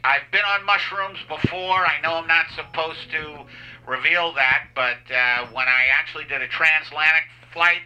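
stoned pilot PA voice. Pretend. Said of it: "this is the pilot".

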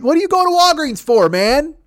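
high, loud disbelieving cry; half-laughing disbelief aimed at his mom; incredulous outburst. Retold or imitated. Disbelief at mom's Walgreens trip.

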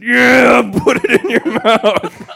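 high, loud eager shout; high, loud ghost cheering him on; ghostly voice shouting. Acted. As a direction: shout it out like an excited spirit. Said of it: "the voice said".

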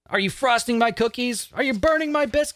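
climbing giddy, breaking off; giddy rising read that stops short; excited list read. Retold or imitated.

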